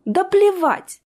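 high, loud carefree outburst; defiant exclamation. A narrator's reading. Jessica shrugging off the punishment, defiant cry. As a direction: toss it away defiantly.

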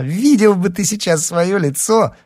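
high, loud teasing cry; loud, high-pitched gloating; amused exclamation. A narrator's reading. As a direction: crow at the victim of your prank. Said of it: "воскликнула она".

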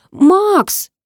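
put-on a high, loud girl's cry of a name; scream. A narrator's reading. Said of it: "закричала Карина". (громкий высокий крик)

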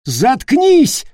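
high, loud bark; furious shout. Acted. Peter silencing Leroy, a loud furious shout. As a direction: scream at him to shut up. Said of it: "крикнул он".

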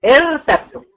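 ارتبتم said high, starting with a voiced hamza, irtabtum; pronunciation demo. Shown as a demonstration. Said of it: "عشان لو ابتدأت بالكلمة".

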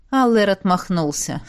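ordinary delivery, nothing marked

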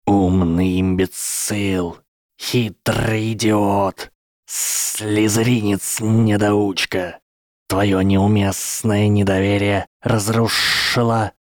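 slow, seething insults from a snake; angry serpent hiss. Acted. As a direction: drag out each insult like a hiss. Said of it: "Змея шипела так сердито".

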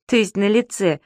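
giggling. A narrator's reading. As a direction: tease him while trying not to laugh. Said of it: "хихикнул Зубастик".

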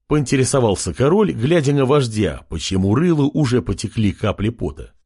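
usual speaking voice

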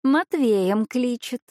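rolled throaty r like a Frenchman; cat speaking with French-style r and purrs. Acted. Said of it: "грассируя на французский манер". (грассирующее французское «р»)

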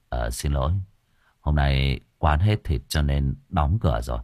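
low, unbothered reply; unhurried calm. Acted. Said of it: "thủng thẳng đứng lên".

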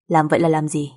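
low-pitched, curt question; gruff man. Acted. Husband answering wife's accusation, low and gruff.

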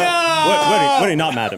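sharp high jump on what; affronted duke. Acted. Duke shocked at the revelation, sputtering.

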